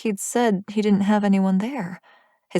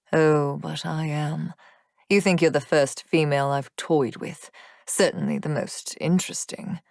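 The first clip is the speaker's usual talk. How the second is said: wicked demon taunt; 2 semitones lower than usual. Acted. Rion taunting cruelly.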